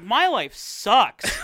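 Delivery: loud, drawn-out mock lament; hammed-up wail of self-pity, dragged out slowly; mock misery. Retelling the alien film's heroine, hammed-up misery. Acted quote of distressed heroine.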